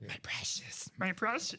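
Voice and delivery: strained, rasped covetous croon; creature voice. Acted. Host gushing over his treasured ticket stub, creepy creature voice. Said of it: "I'm really mixing voices here".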